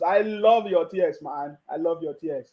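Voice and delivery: slow, low gloating. Real, not acted. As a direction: savor their tears slowly.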